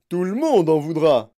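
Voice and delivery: loud, offended outburst; indignant shout. A narrator's reading. Father defends his son's appeal, indignant shout. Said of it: "cria Monsieur Gloop avec indignation".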